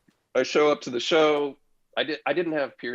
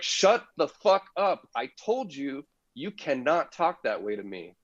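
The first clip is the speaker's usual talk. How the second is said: retold snap; 4 semitones higher than usual. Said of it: "I blew up at him".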